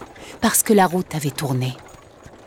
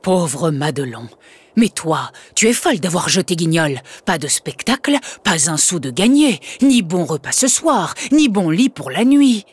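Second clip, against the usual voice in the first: scolding father. Acted.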